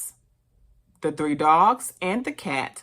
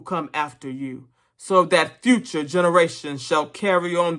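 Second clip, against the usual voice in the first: stirring, emphatic political speech; rally the animals with measured, solemn conviction; orator pig Major; 3 dB louder than usual. Acted.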